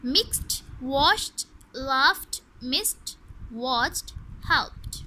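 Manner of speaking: "मिक्स्ड" to "हेल्प्ड" one by one, ending in t; crisp final t on "वॉश्ड", "लाफ्ड", "वॉच्ड"; t ending demo. Shown as a demonstration. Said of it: "यहाँ पर ठ की sound देगा". ("मिक्स्ड" जैसे हर शब्द के अंत में ट की आवाज़)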